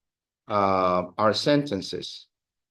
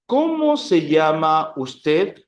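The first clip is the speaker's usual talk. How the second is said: formal demo; 4 semitones higher, 5 dB louder, slower than usual. Shown as a demonstration. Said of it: "in a formal way".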